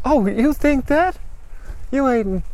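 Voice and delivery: high, defiant retort; defiant challenge. Acted. Mary defies him at gunpoint.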